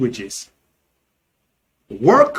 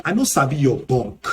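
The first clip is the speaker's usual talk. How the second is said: Nigerian Pidgin; 3 semitones lower, faster than usual. Shown as a demonstration. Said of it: "in Nigerian Pidgin English".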